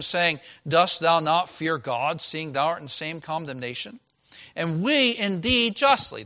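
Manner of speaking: measured, solemn reading of King James verses; scripture reading. Acted. Pastor reads scripture aloud.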